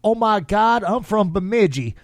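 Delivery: put-on Southern accent; Southern belle accent. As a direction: imitate a Southern belle's surprise. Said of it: "she had that accent".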